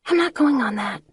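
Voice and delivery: put-on high, frightened young girl voice; scared girl. A narrator's reading. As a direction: refuse the ride in a small scared voice. Scared friend refusing ride.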